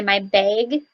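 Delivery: "bag" with the short A said as a long A, like "bayg"; Minnesota bag. Shown as a demonstration. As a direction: stretch "bag" into a long A sound, Minnesota style. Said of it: "we say".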